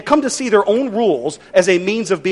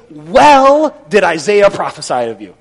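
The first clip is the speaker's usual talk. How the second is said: loud, drawn-out mock praise; slow, heavily ironic compliment; sarcastic; 6 dB louder than usual. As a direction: stretch WELL into sarcastic applause. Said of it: "Did you catch his sarcasm".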